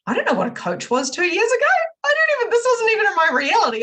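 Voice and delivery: fast, high-energy incredulity; incredulous excitement. Real, not acted. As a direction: rush it in amazed disbelief. Excited disbelief at own past.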